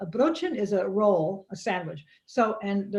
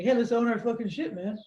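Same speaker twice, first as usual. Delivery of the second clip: mock hippie. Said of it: "You're such a hippie".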